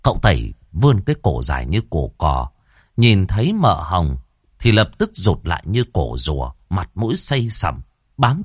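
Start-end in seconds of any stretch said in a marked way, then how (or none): none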